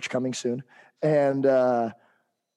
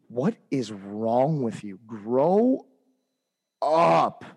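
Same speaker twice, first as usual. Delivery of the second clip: angry outburst; much slower than usual. Real, not acted. Angry at adults bashing kids online, drawn-out grow up. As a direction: scold them to grow up.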